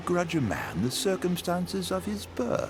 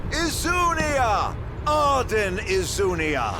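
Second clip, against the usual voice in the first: theatrical announcement; 3 semitones higher than usual. Acted. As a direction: announce yourself like a showman. Grand self-introduction.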